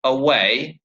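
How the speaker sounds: "away" with the weight on "way"; light first "a", long stressed "way" in "away"; a-WAY, "away" rising at the end; stress on second syllable. Shown as a demonstration. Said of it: "a stress on the syllable".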